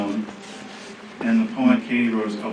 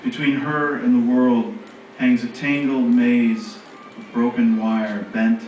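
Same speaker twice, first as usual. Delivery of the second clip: deliberate, phrase-by-phrase verse; poetry reading; slower than usual. Acted. Reading a poem on a hard gaze to an audience, deliberate poetry reading. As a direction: pause after each image, hushing the final repeated words.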